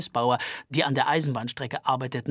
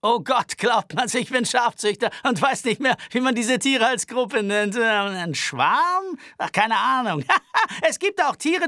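put-on higher, anxious, aggrieved young man; high-pitched nervous Albert voice; 8 semitones higher, 6 dB louder than usual. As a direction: complain fussily and fast.

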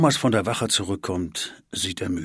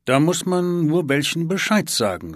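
put-on a boy's voice, higher, eyes down on the table; mumbled to the table; 9 semitones higher, 6 dB louder than usual. A narrator's reading. Niklas speaks to the tabletop, higher and shy. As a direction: talk into the tabletop, not looking up. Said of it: "sagt er zur Tischplatte".

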